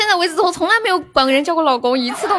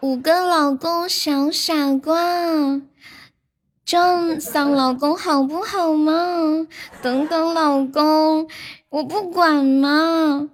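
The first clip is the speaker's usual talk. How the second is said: 撒娇十连. Pretend. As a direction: sweetly coax each husband, half-joking. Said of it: "撒娇十连". (撒娇的语气，拖长尾音)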